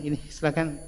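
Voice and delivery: soft, friendly offer, smiling as you hand it over; a touch of kindness, lightly voiced; gentle giving with a smile. Giving money to someone, with a gentle smile. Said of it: "dengan senyum".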